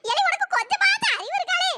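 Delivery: put-on high old woman's scolding; a granny telling the boy off. Grandmother scolding grandson for his mistake.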